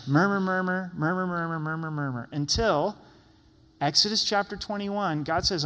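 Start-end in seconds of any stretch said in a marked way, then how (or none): 0.1-2.3 1 grumbling murmur, fading. Shown as a demonstration. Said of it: "I like murmur 'cause it gives a good indication".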